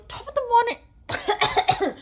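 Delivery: high, slow, drawn-out Irish greeting; hammed-up Irish catchphrase, high and slow; Irish greeting impression. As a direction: stretch it out like a YouTuber's Irish intro. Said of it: "if I just suddenly go".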